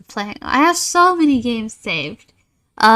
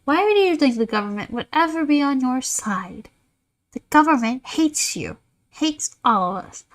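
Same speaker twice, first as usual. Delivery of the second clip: condescending pity; 3 semitones higher than usual. Acted. Voices condescending game character.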